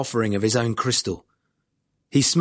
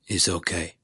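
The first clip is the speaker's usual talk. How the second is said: quiet; 6 semitones lower, 5 dB quieter than usual. A narrator's reading. Boss answers, narrator knows to stop.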